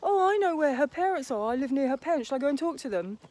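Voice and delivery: mock eager fan. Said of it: "a guy's show on YouTube and goes".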